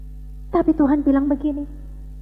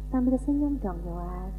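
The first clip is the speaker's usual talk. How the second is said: put-on soft, low request to a child; mother's gentle coaxing; 7 semitones lower, 9 dB quieter than usual. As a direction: coax quietly like a patient mama. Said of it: "Lalu mamamu bilang sama dia". (bujukan lembut seorang mama)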